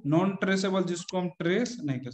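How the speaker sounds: choppy, glitchy robot voice. Real, not acted. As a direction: break up like a lagging robotic call. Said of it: "robot की तरह बोल रहे हो आप".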